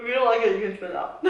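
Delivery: fast, laughing tease. Real, not acted. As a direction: rush it out through a laugh. Teasing friend over taste.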